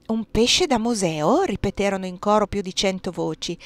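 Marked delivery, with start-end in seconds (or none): 0.1-1.4 astonished echo. Acted. Hundred voices repeat in chorus.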